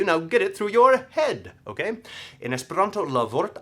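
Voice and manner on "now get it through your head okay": higher, insistent mock telling-off; emphatic scolding. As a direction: act out drumming it into someone. Acted blunt rejection of someone.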